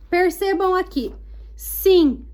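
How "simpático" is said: "Simpático" syllable by syllable, PÁ strongest; separado em sílabas, stress on PÁ. Shown as a demonstration. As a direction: break "Simpático" into SIM-PÁ-TI-CO, punching PÁ. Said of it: "O pá é a sílaba tônica mais forte". ("Simpático" sílaba por sílaba, com força no PÁ)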